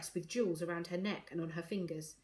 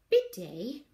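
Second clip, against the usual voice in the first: higher, louder announcement; self-important; 4 semitones higher, 6 dB louder than usual. A narrator's reading. Ivy begins explaining bid day, self-important. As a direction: announce it like an authority. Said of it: "drawing herself up importantly".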